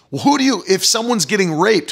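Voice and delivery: ordinary delivery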